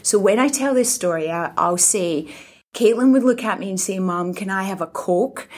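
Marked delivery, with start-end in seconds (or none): 4.0-5.5 put-on a light Scottish accent, toddler asking mum for a Coke. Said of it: "talk to me with a Scottish accent".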